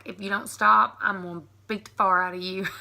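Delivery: "far" for fire, Southern style; playful threat with fire flattened to far; mock threat. Mom pretending to threaten her children, Southern "far". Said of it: "I'm threatening one of my children".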